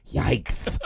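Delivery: deadpan yikes, understated; dry yikes. Retold or imitated. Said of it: "Like that".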